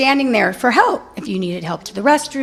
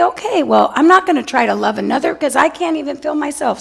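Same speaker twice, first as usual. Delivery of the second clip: rushed, resigned self-talk; tossed off fast to yourself; a quick shrug of an inner voice; 4 semitones higher, faster than usual. Retold or imitated. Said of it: "that's the day we say".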